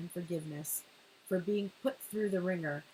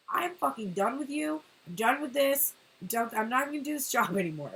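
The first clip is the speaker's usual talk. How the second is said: pissed off quitting; 4 semitones higher, 5 dB louder than usual. Retold or imitated. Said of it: "this is a pissed off energy".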